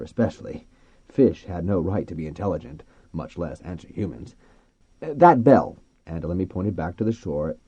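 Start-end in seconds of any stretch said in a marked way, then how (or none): 5.0-5.8 raised, higher, deliberate voice; explaining to dolphins. A narrator's reading. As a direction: project it simply for a creature learning words. Man explaining simply to dolphins.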